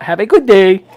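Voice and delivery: imitated thick Latino accent; mimicked Latino-accented farewell; same Latino accent. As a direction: blurt it out in a borrowed Latina accent. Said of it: "in the same accent that she had given me".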